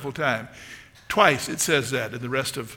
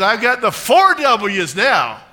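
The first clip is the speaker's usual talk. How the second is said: put-on slow, loud, high-pitched old lady; playful impression, words drawn out; Dorothy Boyd; 7 semitones higher, 11 dB louder, slower than usual. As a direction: proudly announce it as a spirited elderly woman. Retold elderly woman's proud announcement.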